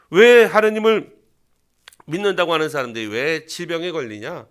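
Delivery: sneering, with a sudden loud burst at 왜; sarcastic needling. Retold or imitated. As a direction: needle the believer about his troubles. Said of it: "라고 빈정대는 거죠". (빈정대는 말투)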